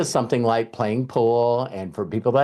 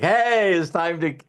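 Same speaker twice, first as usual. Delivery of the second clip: cocky challenge; 5 semitones higher than usual. Retold or imitated. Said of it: "everybody's like".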